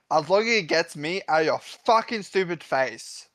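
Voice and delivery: mildly angry retort; a touch of anger in the insult. Acted. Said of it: "As he will angrily say".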